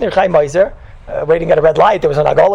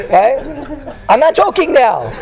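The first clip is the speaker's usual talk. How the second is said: chuckling while insisting he's serious; words bubbling with laughter; laughing; 5 semitones higher, much slower than usual. Real, not acted. Rabbi laughing while telling students he's serious. Laughing at his own joke.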